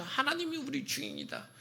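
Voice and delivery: high-pitched prophet crying out to the people; throat-bursting proclamation. Acted. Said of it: "목이 터져라 이야기하면서". (목이 터져라 외치는 선포)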